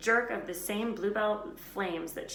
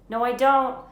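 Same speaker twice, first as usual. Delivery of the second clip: loud, high, frightened no; scared refusal; 7 semitones higher, 16 dB louder than usual. A narrator's reading.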